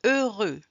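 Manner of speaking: "Heureux" starting on the vowel, no H; careful teacher's model of "Heureux"; silent H and X. Shown as a demonstration. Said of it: "On ne prononce pas le H et le X".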